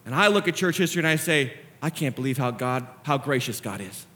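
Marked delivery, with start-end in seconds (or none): 1.8-4.1 humbled wonder. Acted. Own amazed answer to the critics.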